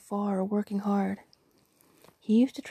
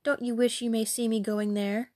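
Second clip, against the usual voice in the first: pert, mocking refusal; ill-mannered retort; 2 semitones higher than usual. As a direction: sneer back at your mother. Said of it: "replied the ill-mannered girl".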